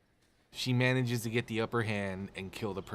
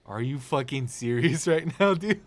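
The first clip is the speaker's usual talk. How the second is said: louder, incredulous, with a laugh breaking in; laughing disbelief; 3 semitones higher, 6 dB louder than usual. Retold or imitated. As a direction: laugh at how absurd it is. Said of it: "And I'm like".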